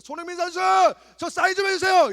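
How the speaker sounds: high and loud fan yell; yelling for an autograph. Retold or imitated. Fan yells at a football star for an autograph, loud and high. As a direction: shout to the star over the crowd. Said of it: "고래고래 소리 질러야 됩니다".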